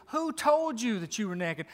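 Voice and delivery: a firm, steady question, not hushed. Acted. God pressing the man about who told him, firmly.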